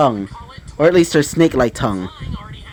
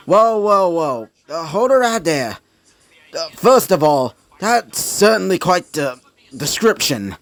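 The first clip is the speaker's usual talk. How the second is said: higher-pitched, lightly acted protest; taken-aback objection; 4 semitones higher than usual. Walter halting the speaker over his description, taken-aback objection. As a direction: cut in with mild disbelief.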